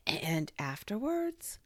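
slow, husky, high-rising question. A narrator's reading. Piglet, after opening and shutting his mouth, asks very huskily. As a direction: force it out huskily, slowly, lifting at the end. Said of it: "managed to say very huskily".

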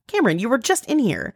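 half-joking scold of a husband who missed it; exasperated. Retold or imitated. Wife retelling to a friend, mock-exasperated. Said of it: "I'm just like".

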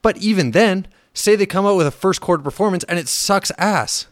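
fed up and letting it all out; real annoyance, swearing through the rant. Real, not acted. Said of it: "Bit of a rant there".

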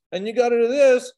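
building to loud. Retold or imitated. Repeated rules, building.

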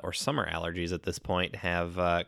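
stuffy nose. Real, not acted. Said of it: "got me a little stuffy".

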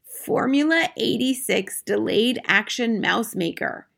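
slow, deliberate label reading; measured, slightly high grandmother reading; reading aloud. A narrator's reading. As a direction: spell out each word of a label with care. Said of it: "read the label aloud".

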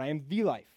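"the" stressed against an expected "a". Shown as a demonstration. Preacher quoting Jesus to make the point, stress on "the". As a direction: hit the word "the" firmly. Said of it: "That word "the" is very important".

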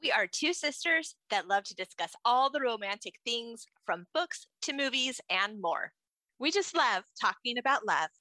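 bright-paced scripted show opener; polished welcome to a podcast; podcast intro read. Acted. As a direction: introduce the show to listeners, rehearsed.

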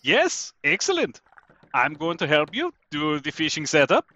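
high, lilting character voice; in-character Jan. Acted. Sailor introducing himself to a crewmate, in a high character voice.

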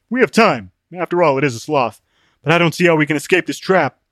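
lightly put-on voice of a worried companion; Open-Minded, worried. Open-Minded weighing escape from the trap, worried.

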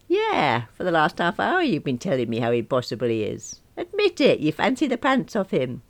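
high teasing jabs; a hint of gossipy friend. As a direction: needle her knowingly. Friend Bev teasing on phone.

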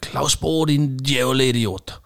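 half-shouted imitation of a furious coach; mock yell, dragging out the insult; retold angry yell. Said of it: "jeg tror, han råbte".

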